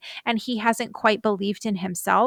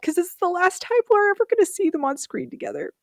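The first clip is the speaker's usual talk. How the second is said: higher, tightening voice that sinks away at the end; choked up; 8 semitones higher than usual. Real, not acted. Fan recalling the couple's last scene, choked up. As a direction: let real emotion squeeze the voice upward. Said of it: "I start to get choked up".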